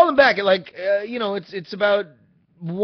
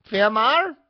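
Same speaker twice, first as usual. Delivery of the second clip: put-on higher, louder Hispanic accent, rising at the end; her Hispanic-accented voice; 6 semitones higher, 5 dB louder than usual. Imitating the phone woman naming the driver, Hispanic accent. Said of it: "say it in her voice".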